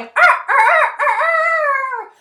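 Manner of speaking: high loud rooster crow. Acted. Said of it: "The rooster was always crowing".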